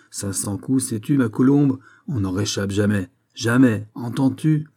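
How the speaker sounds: a lightly voiced jeering Russian cop; gloating policeman. The Russian policeman gloats over the captured prisoner, jeering. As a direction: savour catching him at last.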